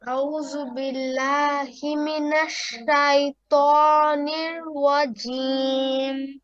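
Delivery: careful Arabic recitation. Shown as a demonstration. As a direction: recite it in a sustained, measured chant. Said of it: "সুন্দর করে শোনান".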